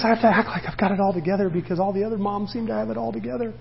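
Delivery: fast, run-on worried-mom quote; pretend composure. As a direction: rattle it off lightly in one breath. Voices a mom keeping up appearances.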